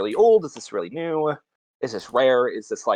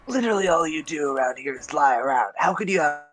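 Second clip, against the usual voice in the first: exasperated adventurer; 3 semitones higher than usual. Acted. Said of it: "I look at the skull and I say".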